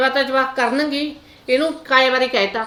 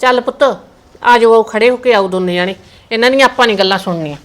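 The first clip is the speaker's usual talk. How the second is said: angry calling out; 6 dB louder than usual. Acted. Mother angrily calling her children away from the grandmother. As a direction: pull the children away in anger, loudly.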